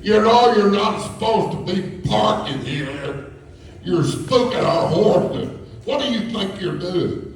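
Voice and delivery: put-on high, scolding Yankee accent. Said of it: "in her best Yankee voice".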